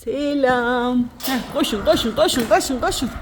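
high, loud sing-song calling to hens; excited hen calling. Real, not acted. Woman calling her chickens to come eat, high and loud. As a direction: call the hens out cheerfully.

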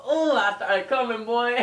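hammed-up excited outburst; acted climax. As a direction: play up a loud moment of climax. Acting out his climax in story.

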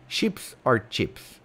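"Chips or chips?" said slowly, first sh then tch; slow sh versus tch. Shown as a demonstration. Running his poll for chat, slow contrast sh versus tch. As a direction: spell out both sounds of "Chips or chips?", sh then tch. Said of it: "The poll is live".

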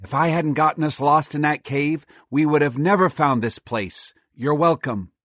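lightly voiced high squirrel; self-satisfied squirrel, lightly voiced; excitable squirrel, smug. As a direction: take credit proudly, pitched a bit up.

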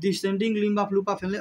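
each word of the term drawn out slowly; slow dictation. Shown as a demonstration. Teacher slowly dictating the term to the class. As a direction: dictate it so students can write it down.

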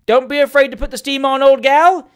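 high, loud heckler's call; exclaimed. A narrator's reading. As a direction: holler encouragement from the crowd. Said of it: "exclaimed another".

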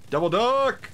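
gleeful shout. Acted. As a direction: yell the name high like a cartoon villain. Repeats in devil voice.

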